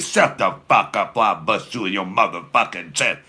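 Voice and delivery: loud, rough mother's threat voice; mom's threat. Retold or imitated. Comic telling his mom's threat in her loud voice. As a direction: bark it like a furious mama. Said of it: "That's how my mom used to talk".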